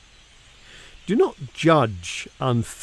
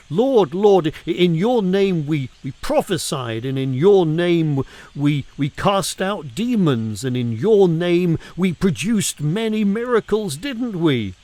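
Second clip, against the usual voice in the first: pleading crowd; 3 semitones higher than usual. Retold or imitated. The many plead with the Lord.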